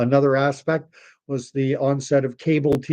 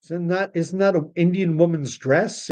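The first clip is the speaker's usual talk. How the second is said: mock confusion; 4 semitones higher than usual. Mock mishearing "sari.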